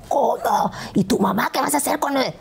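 high, astonished questioning; shocked friend. Retold or imitated. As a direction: imitate a friend's alarmed disbelief. Voicing friend's alarmed disbelief. (sorpresa imitada, voz aguda)

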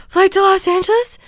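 very high, loud breathless cry; high loud panicked question to the gate agent; frantic plea. Retold or imitated. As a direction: blurt it out in a desperate squeak. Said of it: "I was like".

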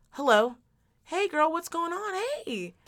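friendly, lilting hello that falls away; sing-song, welcoming phone answer; proper phone greeting. Shown as a demonstration. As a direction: greet a caller like a girlfriend. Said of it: "The proper way to answer a phone is".

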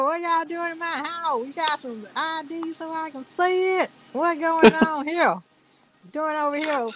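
high, hammed-up redneck voice; redneck white guy. Redneck homeowner questions agents and checks on Bula, high mock-redneck voice. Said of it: "like he's some redneck white guy".

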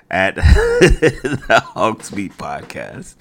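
slow words broken by a chuckle; laughing. Real, not acted. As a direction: chuckle through the name. Laughs at own "crew" joke.

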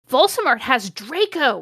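high, loud exclamation; shouting. A narrator's reading. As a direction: shout the alarming news, hammed up. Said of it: "we shouted at the same time".

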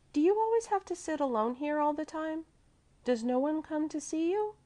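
put-on high, sympathetic child's voice; full of sympathy. A narrator's reading. Little girl asks lonely gentleman, high sympathy. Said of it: "full of sympathy".

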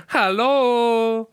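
a high, loud, put-on grand hello; mock formal greeting. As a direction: clear the throat and boom out a silly high hello. Mock posh hello after throat clear.

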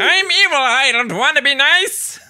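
high, loud cartoon villain protest; hammed-up villain shriek; Skeletor. Villain insisting he is evil, high-pitched protest. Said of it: "But Skeletor is".

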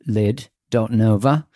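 slow, careful mock British accent on the name. Host greeting a British reviewer in a mock British accent. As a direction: stretch out "Lid dot nova" slowly, the way a British speaker might. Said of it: "That accent wasn't too bad".

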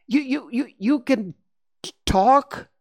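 put-on high stuttering child voice; a stunned boy stumbling over words; stammering in shock. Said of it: "Willie asked, still unsure".

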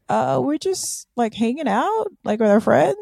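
высоко, растерянно, оправдываясь; confused innocent girls. Retold or imitated. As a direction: play it baffled and innocent. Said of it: "and they're like".

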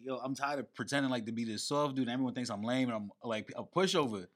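low, soft mock confiding; imitated weary confession. Friend voicing Will confiding in him, weary low confession.

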